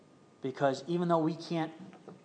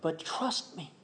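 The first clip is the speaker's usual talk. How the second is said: softer, gentle voice of God; God gently reassuring a hurting child, softer; still small voice; 6 dB quieter than usual. Acted. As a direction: speak softly, like a quiet reassurance. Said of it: "in that still small voice".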